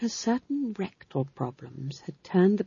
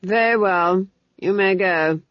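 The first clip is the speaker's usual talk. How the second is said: coldly; 3 semitones higher, 5 dB louder than usual. A narrator's reading. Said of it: "he said coldly".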